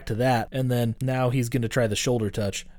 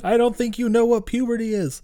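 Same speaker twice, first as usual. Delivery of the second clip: put-on much higher, dry skeptical girl voice; mock skeptical girl; 11 semitones higher, 3 dB louder than usual. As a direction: toss it off like an unimpressed classmate. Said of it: "she's like".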